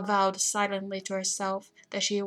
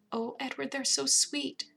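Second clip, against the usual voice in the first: higher, drawn-out adoring gush; high and sweetly delighted; 5 semitones higher than usual. A narrator's reading. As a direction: gush over something adorable. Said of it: "she gushed".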